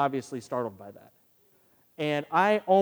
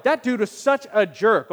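louder, slower grumble at the jerk; mock indignant; 5 semitones higher, 6 dB louder than usual. Preacher voicing his indignant thought, mild mock anger. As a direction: spit it out, offended. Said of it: "Or, like".

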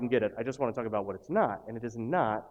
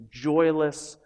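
ordinary talk, nothing marked

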